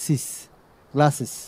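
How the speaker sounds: "গ্লাসেস" ending in a clear "সিস" syllable; es ending as "sis". Shown as a demonstration. Teacher showing the class the plural ending, "গ্লাসেস" with final "sis". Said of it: "তখন উচ্চারণটা কি হয় জানেন?".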